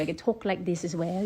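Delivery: softly attempted British accent; English accent. Shown as a demonstration. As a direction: put on a light English accent. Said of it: "with my English accent".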